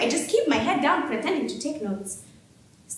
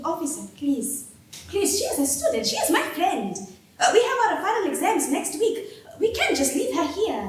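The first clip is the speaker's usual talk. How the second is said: pleading; 5 semitones higher than usual. Acted. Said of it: "continues to plead".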